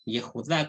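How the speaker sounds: Yehudá with the final "dá" stressed; stress on last syllable. Shown as a demonstration. Teacher explaining accentuation, Yehudá stressed on its last syllable. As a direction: land the accent on the end of Yehudá. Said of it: "con acentuación en la última sílaba".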